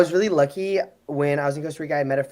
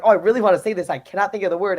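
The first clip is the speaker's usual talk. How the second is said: raised voice, eager and searching; passionate; 3 semitones higher, 3 dB louder, faster than usual. Retold or imitated. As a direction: retell the struggle for a word with passion. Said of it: "just very, like, passionate".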